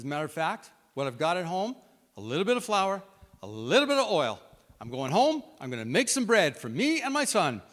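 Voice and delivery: rising to a high, loud, desperate cry; letting it all out. Acted. Widow telling Elijah, rising into a high, loud, desperate cry. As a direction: build until it breaks high. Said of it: "she has let it all come out".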